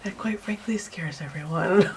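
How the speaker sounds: amused, laughing through the words. Real, not acted. Artist joking about her scary calm voice, laughing. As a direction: let laughter spill round the line.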